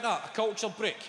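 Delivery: high, bright exclamation of a fresh idea; hammed-up eager holiday pitch; mock excitement. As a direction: toss it off like a brilliant plan.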